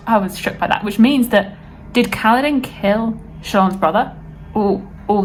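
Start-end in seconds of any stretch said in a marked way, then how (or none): none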